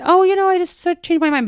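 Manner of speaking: high, airy brush-off; tossing off a breezy excuse; the guy breezily telling the girl he changed his mind; light excuse. Retold or imitated. Voicing the guy's light excuse.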